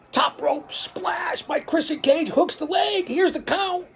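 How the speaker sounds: high, loud hype call; excited shout. Acted. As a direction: yell the big splash like it's over. Big move call.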